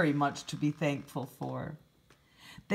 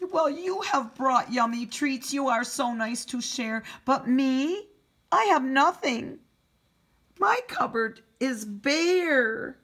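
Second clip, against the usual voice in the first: sad bear; 7 semitones higher, 5 dB louder than usual. Acted. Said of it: "Bear sighs and he moans".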